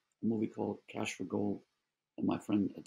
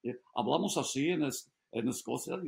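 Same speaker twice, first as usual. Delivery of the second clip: put-on Spanish with Scottish accent. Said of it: "he spoke Spanish with a Scottish accent".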